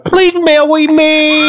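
put-on slow slurred drunk pleading. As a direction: slur it like a drunk begging. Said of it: "break out the drunk voice".

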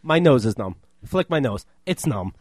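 low-pitched tipsy impression; low, trailing mock-drunk voice; imitated drunk friend. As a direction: play a dazed drunk, dropping low. Imitates drunk friend's numb face.

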